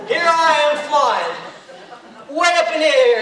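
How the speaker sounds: laughing while flung. Acted. Flung through the air, laughing.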